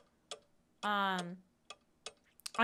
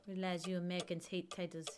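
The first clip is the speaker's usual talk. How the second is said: bad German accent; 4 semitones lower, 5 dB quieter than usual. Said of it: "I know my accent's terrible".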